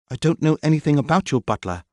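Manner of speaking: high, loud and defensive; irritated denial. Acted. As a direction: snap back at him. Maxine denies, irritated.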